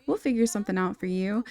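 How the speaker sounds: lightly acted pep talk for a girlfriend; hyping her up. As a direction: cheer her on, starting high. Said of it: "Julia would be hyping her up".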